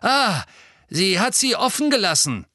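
high, loud gleeful cry; excited. A narrator's reading. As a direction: cackle it out with glee. Filch excited, talking to himself.

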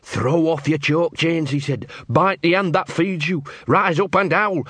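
slow, rising rallying cry; rousing leader quote. Retold or imitated. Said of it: "mixture of fear and fascination".

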